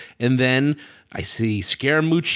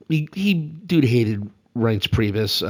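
schoolboy voice; much slower than usual. Retold or imitated. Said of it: "schoolboy voice".

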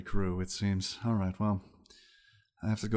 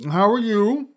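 high wizard lady voice; 11 semitones higher, 8 dB louder than usual. Acted. GM voicing eating wizard.

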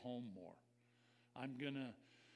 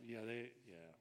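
cynical mutter; 3 semitones lower than usual. Retold or imitated. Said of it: "you might mutter it to yourself".

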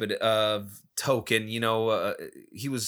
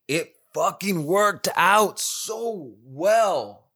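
drawn-out, higher, gleeful emphasis; elated; 5 semitones higher, much slower than usual. Real, not acted. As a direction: stretch each word out in delight. Relief at a deal that worked.

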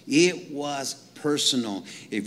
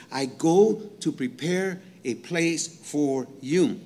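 Jesus speaking tenderly; slower than usual. Retold or imitated. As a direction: say it slowly like a gentle promise. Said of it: "he says".

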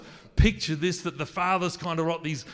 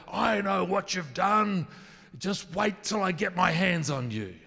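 higher, menacing shout of warning; loud angry threat; 5 semitones higher than usual. Shown as a demonstration. Preacher voices the angry God's threat, loud and aggressive. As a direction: threaten them like an enraged father. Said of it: "a loud, aggressive, angry voice".

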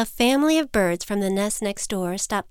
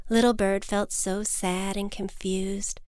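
usual speaking voice

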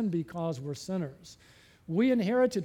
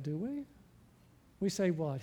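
ordinary talk, nothing marked

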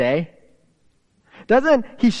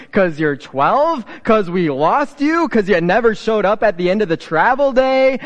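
exasperated; 3 semitones higher, 4 dB louder than usual. Pretend. Exasperated parent's retort to Jesus.

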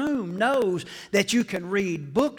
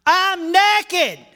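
Adam's sheepish reply; 10 semitones higher, 9 dB louder than usual. Acted.

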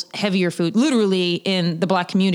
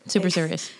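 hushed mock-serious whisper; breathy stage whisper, deadpan; 2 semitones lower, 5 dB quieter than usual.

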